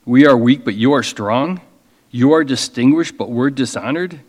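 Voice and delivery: ironic, rising questioning lilt; sarcastic. Shown as a demonstration. Preacher voicing Paul's sarcasm to the church. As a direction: let the irony drip from each contrast. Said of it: "He probably said it more like".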